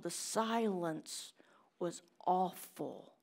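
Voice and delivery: hushed whisper about the silence. Acted. Preacher remembering his silent household, whispering. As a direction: breathe the words, no voice. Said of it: "describing household silence".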